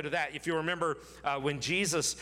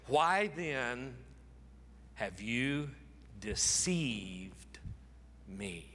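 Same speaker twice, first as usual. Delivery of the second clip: Jacob's question sinking to a hushed whisper; fading to a whisper; 3 semitones lower, 4 dB quieter, much slower than usual. Acted. Jacob asks Laban, dropping to a whisper. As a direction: let the last words die into a breath.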